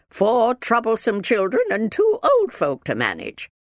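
high, loud complaining minder; snorting disapproval. A narrator's reading. Minder counts up her charges, disapproving. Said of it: "snorted the minder".

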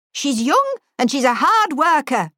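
lightly voiced stern schoolmistress; a hint of a strict teacher; firm old headmistress. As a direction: defend the girl with authority. Headmistress defends girl.

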